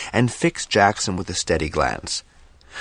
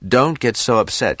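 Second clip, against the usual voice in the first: annoyed; 6 semitones higher, 4 dB louder than usual. A narrator's reading. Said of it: "annoyed at the fuss".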